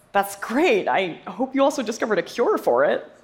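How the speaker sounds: a hint of an amused father quipping back; dad's amused reply. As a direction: play the dad's teasing comeback lightly. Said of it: "And he laughed, and he goes".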